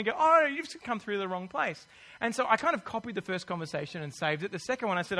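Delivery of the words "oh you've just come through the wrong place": mock sing-song rep chirp; mild imitation of a chipper agent; cheerful sales rep. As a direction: parody a relentlessly cheerful rep. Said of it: "cheerful and nice".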